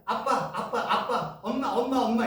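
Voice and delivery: put-on light child voice calling for dad and mom; child calling parents. A small child calling to parents, lightly voiced. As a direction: call out like a toddler wanting attention. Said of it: "어린 아이들이 한 살, 두 살, 세 살".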